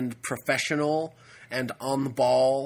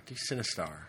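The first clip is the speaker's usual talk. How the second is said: Sinistar voice; 7 semitones lower, 10 dB quieter than usual. Shown as a demonstration. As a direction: lower and softer robotic boom.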